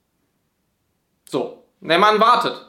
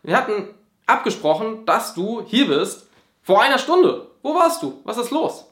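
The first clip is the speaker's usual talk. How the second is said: rising, higher-pitched annoyed demand; annoyed confrontation; 3 semitones higher than usual. Retold or imitated. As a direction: confront a partner who arrived an hour late. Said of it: "ärgerlich zu werden und zu sagen".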